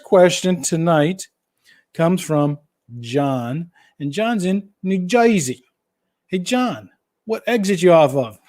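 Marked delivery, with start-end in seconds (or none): 4.8-8.4 lightly put-on New Jersey accent; playful imitation of a comic New Jersey accent; Joe Piscopo skit. Host greets John from New Jersey, imitating the accent. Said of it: "That's an old Joe Piscopo skit there".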